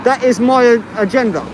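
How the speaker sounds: talking through a face mask; words dulled by a mask; muffled through mask. Real, not acted. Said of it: "I can't hear you with the mask on and traffic".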